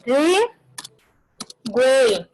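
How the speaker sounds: "Averiguei" very slow, the ending "guei" drawn out; drawn-out word. Shown as a demonstration. Teacher stretching the triphthong word for students. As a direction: linger on "Averiguei" to show the three vowels. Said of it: "vai ser chamada de tritongo".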